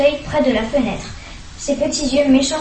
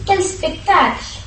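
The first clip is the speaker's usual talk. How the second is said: crying out; 6 semitones higher, much slower than usual. A narrator's reading. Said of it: "cria grand-mère".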